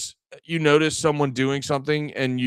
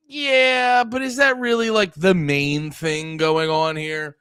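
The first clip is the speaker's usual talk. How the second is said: a mocking voice pitched well higher, then slowing on the last line; sceptical retort; 4 semitones higher, 4 dB louder, slower than usual. Imitating someone questioning a racial angle, mock sceptical. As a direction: push back with a sceptical, drawn-out question. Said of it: "you're like".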